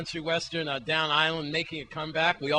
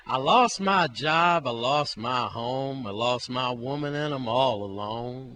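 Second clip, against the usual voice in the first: mock country lament; 4 semitones lower, slower than usual. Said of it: "it's like".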